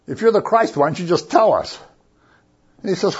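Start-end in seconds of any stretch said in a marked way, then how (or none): 0.0-1.8 questioning. Retold or imitated. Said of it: "they ask him a question".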